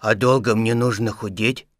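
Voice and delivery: understated worried bear question; frightened. Acted. Stuck Pooh fearing a long wait, mildly frightened. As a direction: ask with mild alarm. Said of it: "испуганно спросил Пух".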